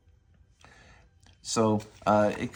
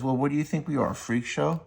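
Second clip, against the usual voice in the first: higher, mildly indignant comeback; indignant retort; 6 semitones higher, faster than usual. Retold or imitated. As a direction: Luba throws the line back, a touch offended. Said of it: "And then here she says".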